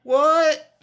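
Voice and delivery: loud, very high shocked cry; real astonishment. Real, not acted. Host learning she was with her man, astonished yelp. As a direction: yelp it in disbelief. Shocked by new detail in story.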